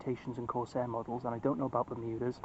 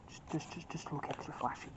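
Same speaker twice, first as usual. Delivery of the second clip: whisper; 10 dB quieter than usual. Real, not acted. Trailing aside in a whisper.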